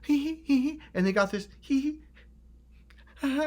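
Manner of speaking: high mock snicker of a smug narcissist; mocking giggle. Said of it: "looking at you like".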